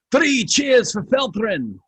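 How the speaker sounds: high, slow cheer; rally the crowd for the hero. Acted. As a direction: dwarves cheering for Felthrin. Dwarves cheering their hero.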